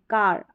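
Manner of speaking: कार with a light half r at the end; half r sound. Shown as a demonstration. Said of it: "half sound इसका pronounce होगा".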